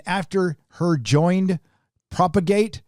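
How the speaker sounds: halting read, pausing after "joined"; puzzled reading. Real, not acted. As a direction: read it as if "her joined" can't be right, rising on "Propagate". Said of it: "Who wrote this article?".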